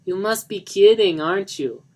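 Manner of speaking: loud, high disbelieving cry; can't believe what she just said; incredulous outburst. Acted. Johnny to his fiancée, loud disbelieving cry.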